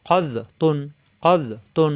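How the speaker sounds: খজ with a thick, rounded vowel; heavy sound. Shown as a demonstration. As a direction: make খজ full and heavy. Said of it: "মোটা হবে". (খজ মোটা আওয়াজে)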